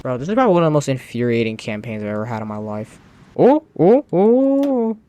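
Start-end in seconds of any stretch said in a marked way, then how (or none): 3.4-5.0 much higher, louder startled cries; gasping high excited ohs. Real, not acted. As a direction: yelp in sudden excitement. Sees enemy front collapsing.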